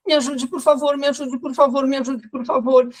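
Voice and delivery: me ajude, por favor three times, high and begging; pleading repetition. Retold or imitated. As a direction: imitate the anxious patient begging for help. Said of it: "Tudo que ela falava eram três vezes". (súplica aguda repetida três vezes)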